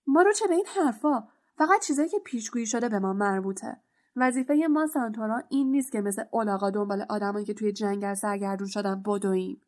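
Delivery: furious centaur lecturing; angry. Acted. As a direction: spit out the scorn and rush on. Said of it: "بین با خشم و غضب".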